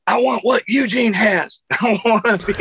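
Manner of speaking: put-on high, excited child's voice; a seven-year-old who wants what the puppet has; little kid voice. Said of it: "and I'm like".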